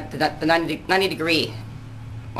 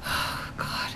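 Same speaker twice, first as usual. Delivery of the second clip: a soft breathy aside to herself; whispered oh God; 12 dB quieter than usual. Real, not acted. Realizing she forgot the year, whispered embarrassed aside.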